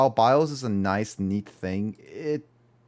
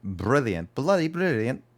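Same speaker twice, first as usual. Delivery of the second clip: mock British accent; 4 semitones higher than usual. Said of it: "how was the southern accents".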